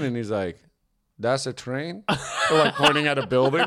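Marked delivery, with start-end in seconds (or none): 1.2-2.0 put-on puzzled driver with a light Mexican accent; imitated Mexican accent, asking in confusion. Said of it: "the quintessential Mexican accent".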